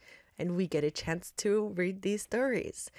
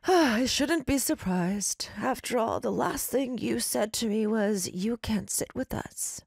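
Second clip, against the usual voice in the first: villain voice; 3 semitones higher, slower than usual. Acted. Villain confronting Alice.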